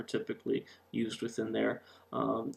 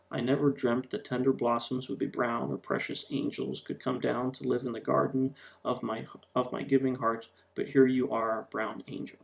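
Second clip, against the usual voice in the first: natural poem reading. Shown as a demonstration. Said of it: "simply just read it as the words appear".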